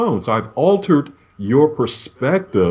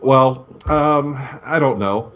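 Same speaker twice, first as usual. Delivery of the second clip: hesitant; slower than usual. Shown as a demonstration. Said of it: "You can hear coming across in the voice".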